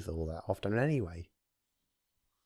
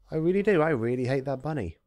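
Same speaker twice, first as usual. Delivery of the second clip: jumps up high and loud on do; emphatic outburst; 6 semitones higher, 5 dB louder, faster than usual. Real, not acted. Reader venting about the bunny, a sudden high loud burst. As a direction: blurt it out, really meaning it.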